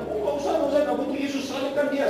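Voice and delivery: dismissive crowd. Acted. Crowd rejecting Jesus.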